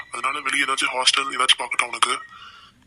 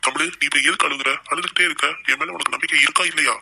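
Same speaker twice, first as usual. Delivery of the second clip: exasperated scolding; 2 semitones higher, 3 dB louder than usual. Acted. Cousin scolds crying Tamil, exasperated raised voice. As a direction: demand she stop crying, voice up.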